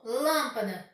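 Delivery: "lâmpada" said slowly, first syllable LÂM stronger; stress on LÂM. Shown as a demonstration. Teacher showing students the strong syllable, stressing LÂM in "lâmpada". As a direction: lean on the LÂM of "lâmpada", drawing the word out. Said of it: "eu pronuncio com mais força".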